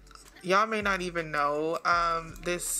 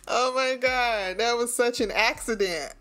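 high, cracked-up exclamations; helpless laughter; 4 semitones higher, 3 dB louder than usual. Real, not acted. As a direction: gasp it out while losing it laughing. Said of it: "I can't stop laughing".

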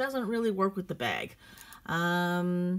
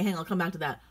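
ordinary talk, nothing marked

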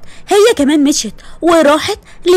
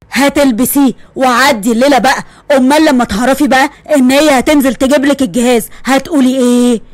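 a hint of a stern, lower father; father ordering daughter to wear the dress; firm father; 3 semitones lower than usual. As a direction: lay down the law gently.

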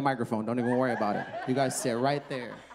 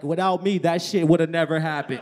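smug doctor; 7 dB louder than usual. Retold or imitated. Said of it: "our doctor's like".

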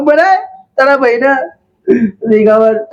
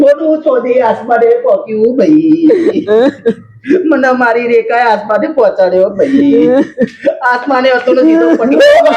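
mock crying. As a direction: sob out the grievance, hammed up. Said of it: "ચમલા તમે રોવો છો લા". (રડતાં રડતાં નાટકીય વિલાપ)

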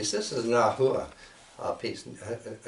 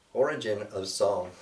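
recited title. Shown as a demonstration. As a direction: announce the poem's title with weight. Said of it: "So I'll begin with that".

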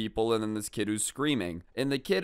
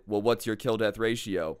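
ordinary delivery

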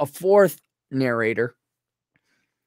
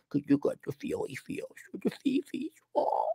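mocking tone; 7 semitones higher, 13 dB quieter than usual. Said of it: "mocking the narrator's feelings".

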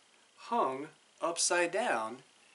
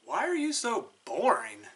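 fast, somewhat higher anteater voice; 6 semitones higher, 3 dB louder, faster than usual. Acted. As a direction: rattle off the question. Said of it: "the anteater asked".

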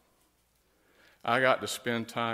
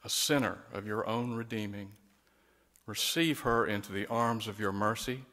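solemn prayer; 4 dB louder than usual. Acted. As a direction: pray it over her with full feeling. Leads the commendation prayer.

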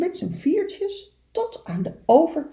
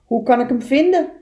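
little beaver voice; 3 semitones higher, 7 dB louder, faster than usual. Acted. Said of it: "vroeg Kleine Beer".

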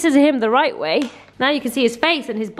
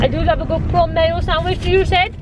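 put-on Welsh accent; 5 semitones higher than usual. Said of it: "Welsh accent's rubbed off on me".

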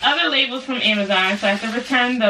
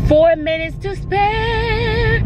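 excited; 12 semitones higher, 4 dB louder, much slower than usual. Real, not acted. Excited in car.

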